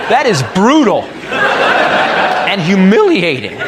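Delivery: slow, drawn-out relish; lingering, gleeful delivery; savoring. Acted. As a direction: roll it out with glee. Relishing the humiliation.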